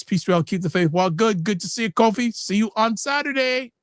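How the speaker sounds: normal talking voice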